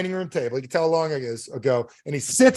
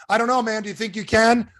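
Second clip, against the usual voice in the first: higher-pitched, hesitant acted caller; doubtful customer; 6 semitones higher than usual. Doubting customer in acted phone call.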